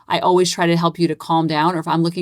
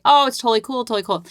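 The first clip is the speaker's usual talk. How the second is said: playing it down; 5 semitones higher, faster than usual. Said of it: "Playing it down".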